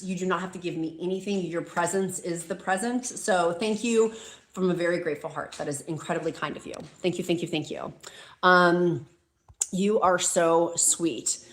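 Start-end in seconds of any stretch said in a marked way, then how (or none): 1.4-5.5 heartfelt thanks. Real, not acted. Sincere thanks to a viewer. 7.0-11.4 heartfelt thanks. Real, not acted. Sincere thanks to a viewer.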